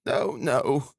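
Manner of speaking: high-pitched motherly protest; hurried interruption. A narrator's reading. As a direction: cut in quickly to reassure your son. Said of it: "hurriedly interrupted".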